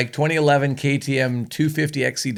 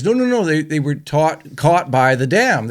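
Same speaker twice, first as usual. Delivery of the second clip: higher, hasty mock explanation; raised "no, no, no" easing down; acted protest; 5 semitones higher, 4 dB louder than usual. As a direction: jump in to correct her, lightly acted. Priest hastily reassures shocked wife.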